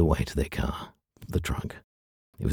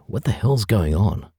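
alarmed; 6 semitones higher, 5 dB louder than usual. A narrator's reading. Lucy alarmed, demanding.

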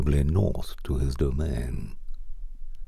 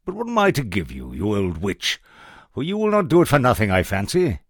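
higher, fast and eager; excited soldier; 5 semitones higher, faster than usual. Acted. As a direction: rush it out, pitched up. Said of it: "said the soldier".

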